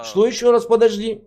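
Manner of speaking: incredulous. Real, not acted. Incredulous interruption.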